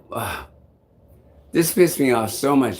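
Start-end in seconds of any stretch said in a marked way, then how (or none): 0.1-0.5 short, low, soft groan; exasperated groan. Retold or imitated. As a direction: groan it out in quiet frustration. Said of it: "I'm like".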